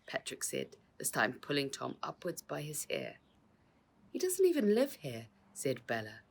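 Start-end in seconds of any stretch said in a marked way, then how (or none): 4.1-5.3 high, louder indignant cry; indignant protest. Acted. Bella protesting to the crook holding Tom, indignant. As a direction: shout him down in outrage.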